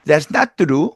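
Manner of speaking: Hispanic-accented English with hard, unaspirated t. Shown as a demonstration. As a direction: say it with tense Hispanic consonants. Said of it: "이렇게 발음한단 말이죠". (된소리 섞인 히스패닉 억양)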